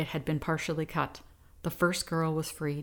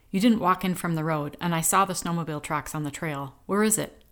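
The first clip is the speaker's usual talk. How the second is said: angry demand; 5 dB louder than usual. Acted. Pete threatens captive with rifle.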